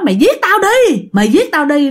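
high-pitched imitated cry of defiance; retold desperate defiance. Injured mother defies her son.

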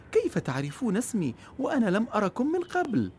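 put-on a girl puzzled they know her name; surprised girl. A narrator's reading. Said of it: "دهشت مرجانة".

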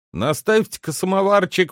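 high-pitched called-out request; loud call. A narrator's reading. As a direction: keep calling to your wife across the house. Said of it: "крикнул он громким голосом своей жене". (громкая просьба жене)

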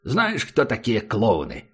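gentle, soothing question; tender, affectionate. A narrator's reading. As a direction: speak kindly to a monster. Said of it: "спросил Убер ласково".

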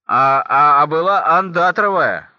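put-on loud, stammering drunk outcry; stammer, then cry out like a dismayed drunk; пьяное возмущение. Пьяный обнаруживает подмену шапки. (громкий пьяный возглас с запинкой)

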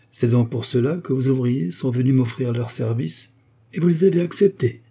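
spoken with a mean smirk; nasty smile. Acted. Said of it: "avec un mauvais sourire". (avec un mauvais sourire)

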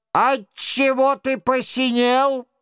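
high-pitched, baffled royal question; astonished question. A narrator's reading. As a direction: ask in amazement, pitched right up. Astonished king questions the blue man. (поражённый высокий вопрос)

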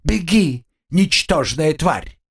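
high, slow menacing growl; bully a tiny victim; menacing mutant. A narrator's reading. Mutant threatens cockroach.

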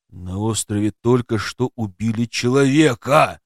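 ordinary delivery

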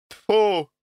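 loud sharp spitting "Тьфу!"; spit in disgust. Acted. Taisia spits in disgust at the news, loud and sharp. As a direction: spit the word out. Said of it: "отплюнулась Таисия".

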